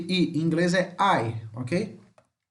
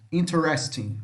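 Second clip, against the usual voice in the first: REST as the strong syllable of interesting; interesting stressed on REST. Shown as a demonstration. Teacher repeating the correct form for students, interesting stressed on REST. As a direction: put the weight on REST in interesting. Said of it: "A sílaba mais forte é aqui".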